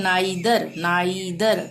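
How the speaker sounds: नाइदर with आ gliding into ई; careful model नाइदर, first vowel आई; clear ai glide. Shown as a demonstration. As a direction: sound both आ and ई in नाइदर. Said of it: "उच्चारण हो रहा है आई".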